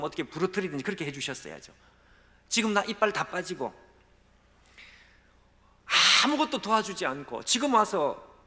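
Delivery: rising into a loud, high outburst; angry complaint. Retold or imitated. Broken pastor raging at God, loud grievance. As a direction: pour out bitter grievances at God. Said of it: "우라가 그냥 치밀어 올라가지고".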